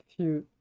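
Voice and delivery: "Fieux" said like "vieux" with an initial F. Shown as a demonstration. Explaining an unknown word to friends, "Fieux" with F for V. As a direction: say "Fieux" softly, rhyming with vieux, starting on F. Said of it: "Comme vieux, mais avec un F".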